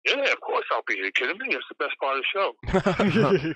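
eager, rising to a laugh; thrilled to say yes; excited reply. Retold or imitated. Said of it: "own reply retold".

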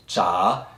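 "cha" with a rising Mandarin tone; second tone. Shown as a demonstration. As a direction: slowly lift the pitch through "cha". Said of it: "which is the second tone".

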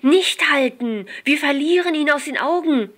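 don't let him stop, the taxi is getting away; excited call. A narrator's reading. Jill urging Jack not to stop, excited and loud. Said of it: "rief sie aufgeregt aus".

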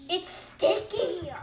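face covered by wet sheet; speaking with mask on face; through a sheet mask. Real, not acted. Seen 3: Two girls wear sheet masks; the speaker is unclear, mouth holes are open.

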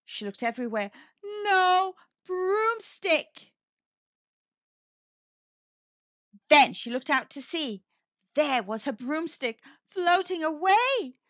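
lively storybook reading voice; a picture book read aloud; story narration. Acted. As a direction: read it to children, bright and animated.

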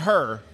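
"her" with the St. Louis r-coloured vowel; imitated St. Louis pronunciation. Guest teasing St. Louis locals about their speech, mimicked pronunciation. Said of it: "Whenever y'all say her".

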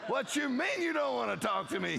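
indignant protest. Retold or imitated. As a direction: protest to God, put out.

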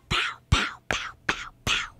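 flat robotic knocking sounds. Retold or imitated. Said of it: "my voice, like, sounded like a robot there".

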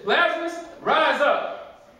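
commanding call. Acted. Jesus calls Lazarus from tomb.

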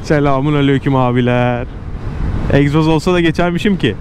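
ordinary talk

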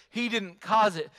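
stressed cause; emphatic clarity. Shown as a demonstration. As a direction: make it crystal clear. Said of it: "let me establish that real clear".

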